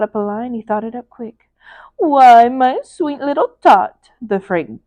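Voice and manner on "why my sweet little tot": louder, sugary fake-kind Grinch; lying Grinch. The Grinch lying sweetly to little Cindy Lou. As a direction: sweet-talk the child to cover the lie. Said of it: "the fake Grinchy Claus lied".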